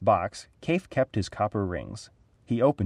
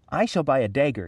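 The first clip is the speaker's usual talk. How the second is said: excited; 5 semitones higher than usual. Acted. Boy's wonderful idea.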